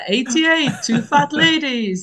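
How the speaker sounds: lightly voiced bingo caller, slow. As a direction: call it out like a bingo hall. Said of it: "just being like a bingo caller".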